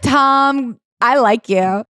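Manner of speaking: high, put-on sugary voice; sarcastic fake sweetness; mock sweet voice. Host imitating herself sarcastically praising Tom, high and sugary. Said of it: "this is what I was like".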